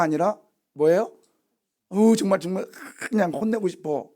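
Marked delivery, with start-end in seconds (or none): 1.9-4.1 acted exasperation. Preacher plays God itching to punish the people, exasperated. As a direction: act fed up and itching to scold.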